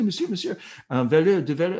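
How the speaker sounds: high, urgent French policeman; rousing a sleeper. Retold or imitated. French policeman rousing a robbed traveler, urgent and high. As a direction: call to wake someone, pitched well up.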